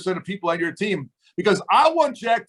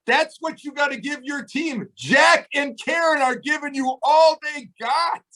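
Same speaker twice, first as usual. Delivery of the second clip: raised, fired-up exhortation; shouting to fire them up; 4 semitones higher than usual. Real, not acted. Coach pumping up the team.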